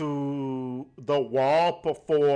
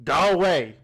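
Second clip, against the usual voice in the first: gruff goblin; 2 semitones higher, 5 dB louder than usual. Acted. Goblin tells him off.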